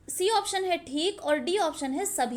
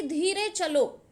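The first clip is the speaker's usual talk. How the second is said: slow demo; slower than usual. Shown as a demonstration. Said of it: "एक example से आप समझिएगा".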